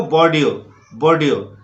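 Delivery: "बोर्डियो" ending on an open o; silent x. Shown as a demonstration. Teacher repeating the correct word, silent x. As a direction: say "बोर्डियो" with no ks at the end. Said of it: "इसको बोलना है आपको".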